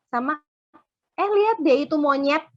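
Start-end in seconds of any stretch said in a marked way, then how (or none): 1.2-2.4 teasing insult with a jab on lihat; mocking insult. Shown as a demonstration. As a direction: say it like you mean him. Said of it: "Beda kan?".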